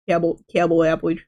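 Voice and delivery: cabble, cabble appage, with the c and p sounds swapped; deliberate flub. Shown as a demonstration. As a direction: repeat the cabble appage mix-up to yourself. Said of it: "kept messing up saying".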